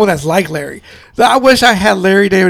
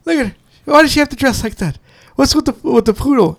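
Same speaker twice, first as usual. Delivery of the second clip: incredulous gossip; 6 semitones higher, faster than usual. Retold or imitated. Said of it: "he's all like".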